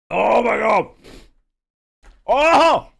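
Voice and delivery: high, shouting through sourness; pained squeals at the sour taste; eating sour candy. Real, not acted. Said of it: "it's so sour".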